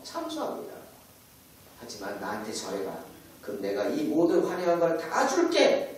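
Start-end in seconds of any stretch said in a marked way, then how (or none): 1.8-5.9 softer, lower seductive tempter; 낮고 부드러운 유혹; tempting. Retold or imitated. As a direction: lure him in, quietly. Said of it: "유혹합니다".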